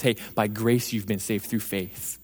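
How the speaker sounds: a gentle promise, eased out slowly; God reassuring. Retold or imitated. God comes back to the humbled man, soft and slow. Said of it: "he says".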